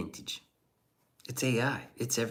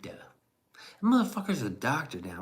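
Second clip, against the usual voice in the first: mock-jealous whispered aside; 5 semitones higher, 3 dB louder than usual. Streamer grumbles about a classmate turned doctor, whispering. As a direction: hiss it like a secret grudge.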